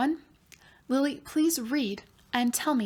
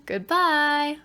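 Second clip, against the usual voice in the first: cheery goodbye; 5 semitones higher, 5 dB louder than usual. Acted. Teacher ends class.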